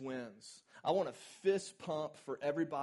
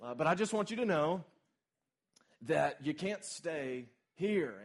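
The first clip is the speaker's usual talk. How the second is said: God's voice; 4 dB louder than usual. Retold or imitated. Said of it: "the voice of the Lord interrupts".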